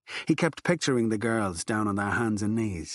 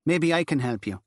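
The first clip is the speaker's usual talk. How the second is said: a hint of a cool nun; 5 semitones higher than usual. Nun addresses Furlong.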